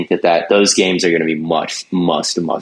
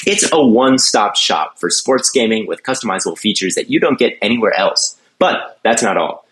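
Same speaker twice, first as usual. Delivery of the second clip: lively, scripted sponsor read; polished host-read commercial. Real, not acted. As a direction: read it as a podcast promo with lifted emphasis.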